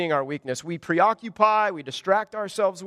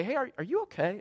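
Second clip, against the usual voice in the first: softer, gently concerned asking; 4 semitones higher, 6 dB quieter than usual. Retold or imitated. Friend quietly asking a congregant, concerned and soft. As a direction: ask like a worried friend checking in. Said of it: "concerned tone in their voice".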